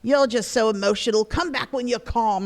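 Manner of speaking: lightly mocked stern father; a hint of an exasperated parent; imitating her dad. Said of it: "my dad would say to me".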